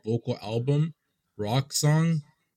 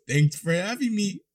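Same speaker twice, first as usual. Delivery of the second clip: higher, nerdy mock voice; nerd voice; 6 semitones higher than usual. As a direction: do a goofy nerd reading the line. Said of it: "I read in a nerd neck voice".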